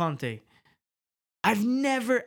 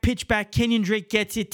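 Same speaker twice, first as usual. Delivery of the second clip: normal talking voice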